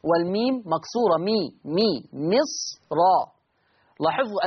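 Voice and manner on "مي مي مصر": مي مي مصر with a clear kasra "mi" and a heavy راء; mi, mi, then مصر with a full راء; kasra on the ميم. Shown as a demonstration.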